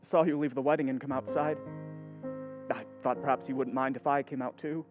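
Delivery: low, soft careful approach; gentle, hesitant. Acted. Laurie joining Jo outside the wedding, gently hesitant. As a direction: tread carefully, keeping it hushed.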